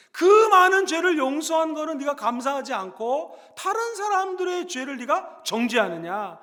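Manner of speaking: ordinary talk, nothing marked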